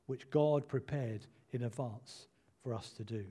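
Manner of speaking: measured, deliberate Bible reading; formal read-aloud from the pulpit; scripture reading. Acted. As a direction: read the passage aloud phrase by phrase. Reads scripture aloud to congregation.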